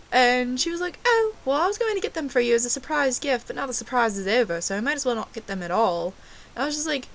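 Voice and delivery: put-on amateur British accent, lively and chatty; fake British accent.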